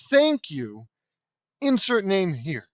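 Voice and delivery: flat, bored thank you; deadpan and slow, no feeling; bland thank you. Shown as a demonstration. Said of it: "so blandly".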